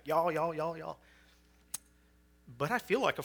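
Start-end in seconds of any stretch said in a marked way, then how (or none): 0.0-1.0 mock Southern y'all. Preacher mocking himself saying y'all, hammed-up Southern. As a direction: rattle off y'all like a crazy maniac. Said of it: "like just a crazy, crazy, crazy maniac".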